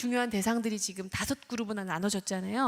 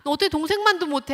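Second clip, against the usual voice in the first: loud, higher chasing scold; comparing scold; 5 semitones higher, 10 dB louder than usual. Retold or imitated. Parent following child to room, loud comparing scold. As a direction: hound the kid through the door. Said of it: "하면서 이제 비교를 합니다".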